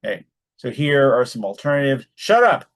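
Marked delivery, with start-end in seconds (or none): 2.1-2.6 high, loud furious snap; angry shout. Shown as a demonstration. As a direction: bark it at him in fury. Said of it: "to indicate that Bob is angry".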